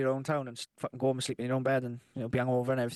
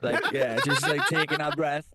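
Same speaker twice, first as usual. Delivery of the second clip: laughing; 6 dB louder, slower than usual. Real, not acted. Cracks up with co-host.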